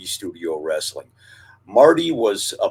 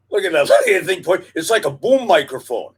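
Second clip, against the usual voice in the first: laughing, higher and louder as the tail points up; laughing at the cat; 10 semitones higher, 7 dB louder, faster than usual. Real, not acted. Host laughing at his cat's raised tail on camera. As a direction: giggle it out while watching the cat.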